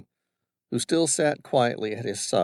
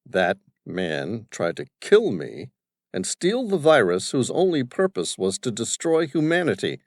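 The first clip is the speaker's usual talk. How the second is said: belligerent; 3 semitones higher, 4 dB louder than usual. Acted. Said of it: "said belligerently".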